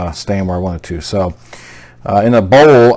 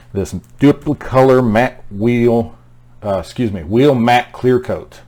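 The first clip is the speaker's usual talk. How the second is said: slurring through an Invisalign; words slushy from a dental aligner; slurred words; slower than usual. Real, not acted. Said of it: "if it sounds like I'm slurring my words".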